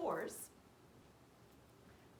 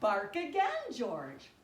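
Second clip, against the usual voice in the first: louder firm command; vet commanding; 9 dB louder, slower than usual. Acted. Vet telling George to bark again, firm. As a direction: order him to bark. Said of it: "George went".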